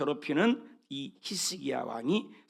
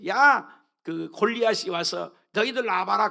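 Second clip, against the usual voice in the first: loud, higher jeering challenge; mocking taunt; 3 semitones higher, 6 dB louder than usual. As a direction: taunt them to come out and fight. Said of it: "조롱을 한 거야".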